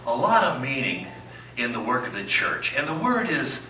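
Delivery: mock sermon in the pastor's voice, building from hushed to big; Pastor Doug impression. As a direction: play the beloved pastor mid-sermon, milking every pregnant pause. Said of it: "this is my impression of you".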